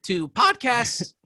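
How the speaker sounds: hushed podcast welcome, drawn out; ASMR voice. Pretend. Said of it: "Is this good?".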